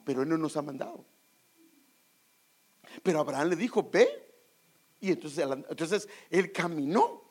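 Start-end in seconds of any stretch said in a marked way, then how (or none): 3.9-4.3 high, loud single command; commanding call. Acted. Preacher voicing God sending Abraham off, high and loud. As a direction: call it out like a divine order.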